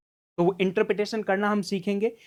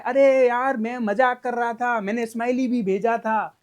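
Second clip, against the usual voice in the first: louder, higher pleading self-defence; protesting excuse; 3 semitones higher, 5 dB louder than usual. Acted. Friend calling to explain a misread message, protesting. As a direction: protest that it was only a joke. Acting explanatory call after chat fight.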